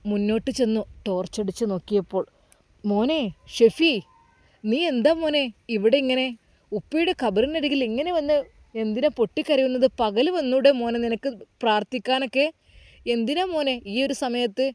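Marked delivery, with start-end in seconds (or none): 2.8-14.7 lightly raised, gently worried elder; a kindly elder asking a grieving boy what's wrong; concerned old man. Acted. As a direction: caretaker finding the boy at his father's grave, lightly voiced. Old mosque caretaker questions boy.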